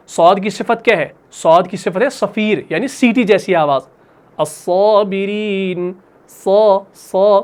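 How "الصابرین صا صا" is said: الصابرین said slowly with a hissing ص; صا with a sharp whistling ص; whistling sad. Shown as a demonstration. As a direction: hiss the صا like a whistle. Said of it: "یہ سیٹی والی آواز ہے".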